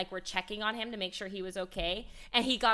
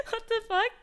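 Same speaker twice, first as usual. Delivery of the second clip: startled high squeal; shocked yelp at the dog; 13 semitones higher, 4 dB louder than usual. Real, not acted. Puppy wakes startled.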